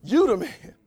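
You lifted high and punched; stress on You. Shown as a demonstration. Preacher repeating the emphasis, stress on "You". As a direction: lean on "You", ease off "the man". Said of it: "There should be an emphasis on you".

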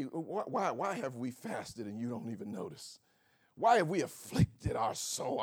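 mock self-pitying whine; dramatic complaint. Mocking fasting people who complain to God, dramatic. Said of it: "I mean, that's dramatic".

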